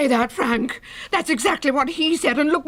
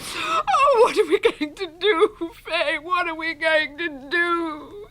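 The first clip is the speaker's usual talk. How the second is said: tearful; slower than usual. Acted. Widow sobbing over vanished husband.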